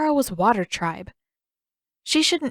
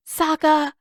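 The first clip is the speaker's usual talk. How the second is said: sharp, higher cry of his name; exasperated call; 8 semitones higher, 5 dB louder than usual. A narrator's reading. Katara calls to her brother, exasperated.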